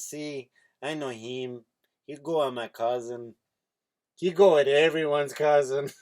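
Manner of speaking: slow cartoon Mexican accent; unhurried, put-on Mexican cartoon voice, building to the punchline; Speedy Gonzalez. Comedian delivering an old joke's punchline, Speedy Gonzalez accent. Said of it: "that's the voice she has".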